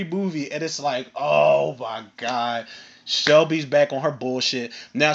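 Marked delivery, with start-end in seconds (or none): 1.1-2.7 slow, drawn-out, low groaned words; hammed-up exasperation, very slow; exasperated dread. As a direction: drag it out in weary disbelief. Exasperated reaction to Shelby's return.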